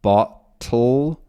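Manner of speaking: "bottle" as "botl", no vowel before the l; syllabic ending. Shown as a demonstration. Teacher modelling a syllabic l for learners, "bottle" with no vowel. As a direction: drop the vowel so the l carries the syllable. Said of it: "words ending in sort of an ul sound".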